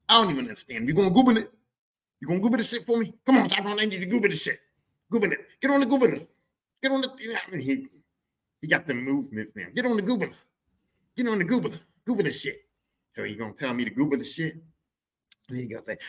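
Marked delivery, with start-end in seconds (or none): 0.9-7.2 higher, louder, mangled Google; mock dad. Dad begging son to Google, hammed up. 9.7-12.7 mock dad. Dad begging son to Google, hammed up.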